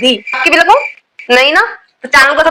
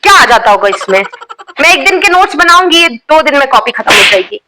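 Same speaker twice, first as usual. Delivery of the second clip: lightly voiced strict schoolteacher, scolding the class; a teacher catching girls with nail paint, scolding; stern teacher scolding. Strict teacher checking student bags.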